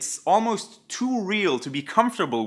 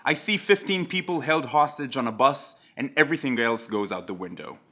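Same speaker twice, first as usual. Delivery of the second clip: lightly voiced lower-pitched quote; understated recital of a TV hero's monologue; Jack Bauer; 4 semitones lower, 3 dB quieter than usual. Jack answers Renee's question about saving lives, lightly acted, lower. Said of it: "Jack tells her".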